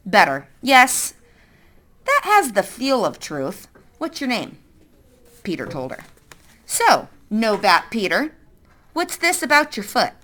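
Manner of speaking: a hint of a stern woman; lightly voiced suspicious woman. Woman questioning.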